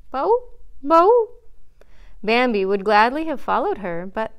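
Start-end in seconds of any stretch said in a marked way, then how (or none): 0.1-1.3 two high bleats, the second louder; deer bleating. A narrator's reading. Faline running away from the stag, high bleating. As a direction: bleat like a fleeing, frightened fawn.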